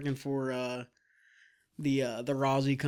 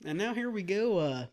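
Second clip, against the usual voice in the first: baseball game announcer voice; booming announcer. Pretend. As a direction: call it like a ballgame announcer. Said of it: "You sound like an announcer at a baseball game".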